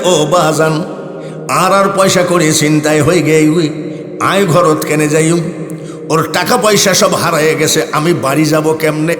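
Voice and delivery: singsong Chittagonian plea, lightly voiced; Chittagonian dialect. Crying boy at the shrine, in Chittagonian. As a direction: mimic a weeping Chittagong lad's lilting dialect. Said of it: "এটা হবে চিটাগাঙ্গি ভাষা".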